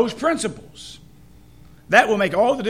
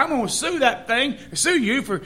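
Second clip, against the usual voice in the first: fighting mad; 4 semitones higher, 4 dB louder than usual. Retold or imitated. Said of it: "the guy gets just fighting mad".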